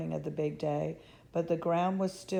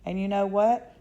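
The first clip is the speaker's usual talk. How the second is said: louder excited call; a lightly shouted crowd voice; shouting; 2 semitones higher, 7 dB louder than usual. A narrator's reading. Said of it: "somebody else shouted".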